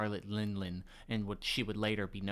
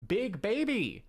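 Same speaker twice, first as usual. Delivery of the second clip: put-on big baby yelled higher and louder; mock shout; 10 semitones higher, 4 dB louder, slower than usual. Shown as a demonstration. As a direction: belt out Big baby as a joke. Repeats meme phrase.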